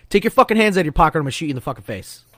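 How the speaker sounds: ramp up the order into a threat; escalated demo command. Shown as a demonstration. Showing the captain how he escalated: fast forceful command. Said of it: "you escalate".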